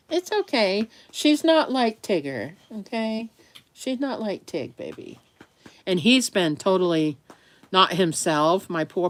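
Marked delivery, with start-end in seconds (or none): 0.1-5.2 soothing dog. Real, not acted.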